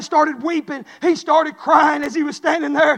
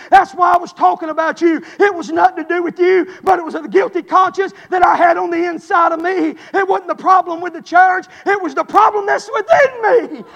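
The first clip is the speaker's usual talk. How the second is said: louder, pleading preacher's cry; impassioned confession; 3 dB louder than usual. Retold or imitated. Preacher voicing a dying man's confession, building louder. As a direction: pour out the guilt with rising force.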